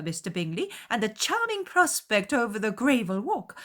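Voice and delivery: high, loud, effusive matron; gushing fussy mother. A narrator's reading. Mother flattering Bingley's house, high and gushing. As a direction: pour on the praise breathlessly. Mrs. Bennet voiced.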